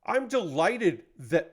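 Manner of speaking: slow, lightly voiced corporate spokesman; a hint of a polished CEO statement; corporate ownership voice. YouTuber reading a CEO statement, in a lightly voiced corporate tone. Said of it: "corporate ownership voice".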